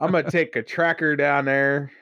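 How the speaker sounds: mild hillbilly Pittsburghese; imitating cousin again. Quoting the cousin's farm talk in a hint of hillbilly Pittsburghese. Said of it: "He just calls it a tracker".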